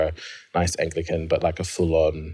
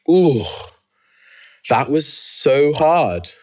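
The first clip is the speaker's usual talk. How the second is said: pained ooh; 6 semitones higher, 5 dB louder than usual. Retold or imitated. Dreading the next step, high.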